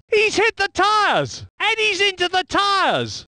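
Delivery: high, urgent crash call; alarmed excitement. Acted. Commentator seeing a car hit the tyres, high urgent call. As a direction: exclaim the impact, pitched high.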